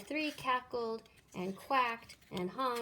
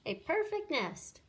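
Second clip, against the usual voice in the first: excited; 7 semitones higher than usual. A narrator's reading. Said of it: "she cried".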